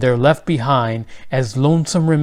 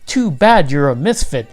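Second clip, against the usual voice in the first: sharply. Acted. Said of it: "the pest sharply said".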